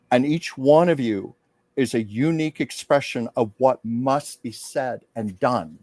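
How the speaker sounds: slow, solemn heartfelt speech; lightly voiced formal address, slow and centered; channeled public speech. Medium channeling a first lady's message, slow and solemn. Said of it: "she went into public mode".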